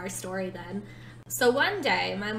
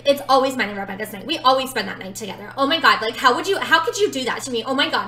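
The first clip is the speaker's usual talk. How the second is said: louder, higher, fast mock rant; retold freak-out; 3 semitones higher, 9 dB louder, faster than usual. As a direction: rant as the upset friend, building. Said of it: "she starts freaking out on me".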